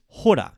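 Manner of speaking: hora said high and loud; stressed hora. Shown as a demonstration. Teacher showing learners the word hora, high and punchy. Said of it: "or in this case".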